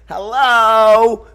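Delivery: high, loud drawn-out hello; camp producer hello. Retold or imitated. Retelling a Frasier producer's greeting, high camp hello. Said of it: "the guy looks over and goes".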